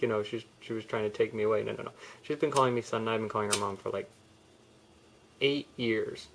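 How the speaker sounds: ordinary delivery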